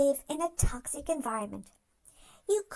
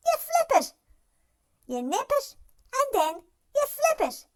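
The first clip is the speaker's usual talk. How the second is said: laughing reveal; 8 semitones higher than usual. Acted. Narrator springs the flip step on the listener, laughing. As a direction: pop the line out with a delighted laugh.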